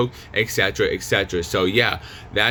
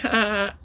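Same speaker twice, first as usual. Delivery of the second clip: short, high put-on laugh; mock hysterical laugh; 10 semitones higher than usual. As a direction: act out a brief burst of high laughter. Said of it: "laugh hysterically".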